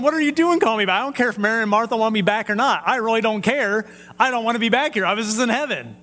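a man yanked out of heaven and cross about it; annoyed Lazarus. Retold or imitated. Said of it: "I'm going".

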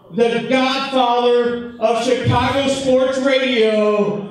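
slow, building ring announcer call; ring announcer intro. Real, not acted. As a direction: build it up to the name.

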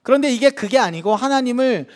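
usual speaking voice

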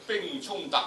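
a strong, measured battle declamation; loud battle recital. Shown as a demonstration. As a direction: call the battle words out strongly. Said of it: "大概去到七度到啦".

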